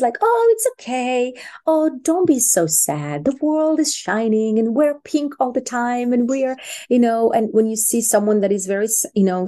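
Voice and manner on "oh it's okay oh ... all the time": sugary mock cheerfulness, starting high; lightly hammed-up sweet reassurance; happy lovely person. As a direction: gush like a relentlessly positive friend. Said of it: "the happy, lovely person that always".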